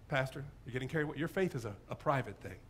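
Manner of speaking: low, soft, hurried caution; hushed objection. Acted. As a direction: discreetly rein the pastor in. Acts a disapproving, cautious churchgoer.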